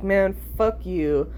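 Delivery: slow, matter-of-fact brush-off; calm fuck you. Retold or imitated. Friend refuses Adderall, she calmly brushes her off. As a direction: let it go coolly, not bratty. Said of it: "it's not like".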